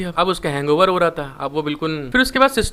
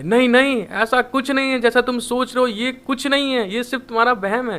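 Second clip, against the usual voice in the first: a panicked protest, a little fast at the end; panicked yell; 4 semitones higher than usual. Retold or imitated. Woojin denying to the girls, a mild panicked yell. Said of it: "घबरा जाता है और वो चिल्ला के बोलता है".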